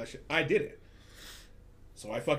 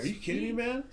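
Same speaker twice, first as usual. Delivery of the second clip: mocking the customer; 10 semitones higher than usual. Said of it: "And he's like".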